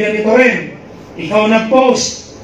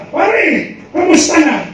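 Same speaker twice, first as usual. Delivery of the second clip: friendly call out; 6 semitones higher, much slower than usual. Pretend. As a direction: call out to a friend you spotted. Calling out to old classmate. (malakas na tawag sa kaibigan sa mall)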